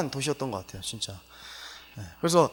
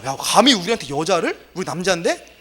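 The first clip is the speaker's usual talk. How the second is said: mock indignant men; 6 dB louder than usual. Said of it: "막 화내요".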